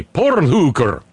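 "porn hooker" slow and drawn out, "porn" rolled in a put-on Eastern European accent; mock Balkan accent. Host trying out Eastern European accent for Melania, mock Balkan accent. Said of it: "I've been saying porn hooker".

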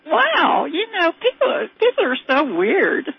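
high-pitched wondering exclamation; amazement. Retold or imitated. Mother thinking about her son's schoolmates, amazement. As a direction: marvel at it, starting high and slowing down.

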